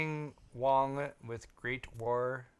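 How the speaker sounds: slow, mock accented Noting Wong; Lyle impersonation. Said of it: "Lyle impersonation".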